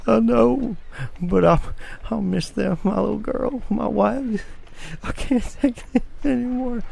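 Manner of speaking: put-on high, wailing drunk sob; a hammed-up drunk crying to the sheriff; mock blubbering.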